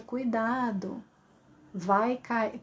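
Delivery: slow, leisurely, softened warning; drawn-out warning with no urgency; uselessly slow warning. Shown as a demonstration. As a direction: take your time over an urgent warning. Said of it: "não dá pra falar devagar".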